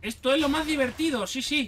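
sarcastic fake excitement about mining iron; ironic enthusiasm. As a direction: sell the boring chore as the best fun, tongue in cheek. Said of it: "No se ha notado mi ironía".

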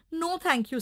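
puppy refusing grass; polite puppy voice. Acted. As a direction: politely turn it down. Puppy declines.

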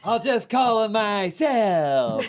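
slow film-star impression; Jack Nicholson. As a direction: draw it out like a movie star. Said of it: "It's Jack".

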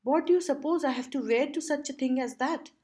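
a touch of exasperation; impatient. A narrator's reading. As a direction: press him impatiently. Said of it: "declared impatiently".

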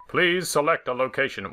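lightly voiced manly elevator; a hint of a robotic announcer. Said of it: "Why has the elevator got such a manly voice".

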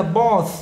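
both ending on voiceless th. Shown as a demonstration. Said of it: "nó khác biệt". (đọc both với TH vô thanh)

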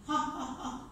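spoken mock "ha ha ha"; demonstrative fake laugh. Shown as a demonstration. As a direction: act out laughing with three separate ha's. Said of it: "But Marcel is not laughing".

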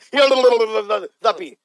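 αλλοδαποί stretched slowly over repeated babbled l-syllables; mock stutter. Radio host repeating the word to the caller, slow mock stutter on αλλοδαποί. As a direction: stammer through αλλοδαποί very slowly, on purpose.

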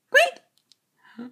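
very high squeaky rat noise; rat squeak. Acted.

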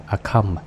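"come" rhymes with home, no b sound at the end; silent b in comb. Shown as a demonstration. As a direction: say "a come" with the b silent, ending on a plain m. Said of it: "chữ bờ này câm ha".

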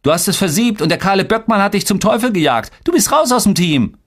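high-pitched, rapid taunt; mocking. A narrator's reading. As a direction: jeer at your brother in a high kid's voice. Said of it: "spottete Boran".

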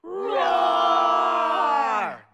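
loud playful sung roar; big friendly dinosaur roar. Pretend. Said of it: "Can you roar like a dinosaur?".

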